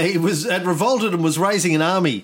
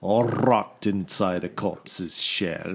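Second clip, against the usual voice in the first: spooky horror-song narrator; 6 semitones lower than usual. Retold or imitated. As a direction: growl it out like a horror trailer. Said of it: "that was the song".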